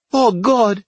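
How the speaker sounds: high, loud wail of alarm; distressed wife bawling; bawled cry. Acted. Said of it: "She bawled".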